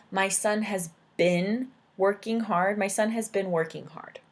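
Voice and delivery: careful model. Shown as a demonstration. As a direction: read "My son has been working hard" at a careful teaching pace. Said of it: "So you could say".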